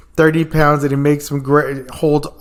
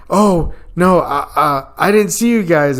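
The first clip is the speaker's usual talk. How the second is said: higher, stammering apology; flustered; 4 semitones higher than usual. Retold or imitated. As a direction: caught out and flustered. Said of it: "he's like".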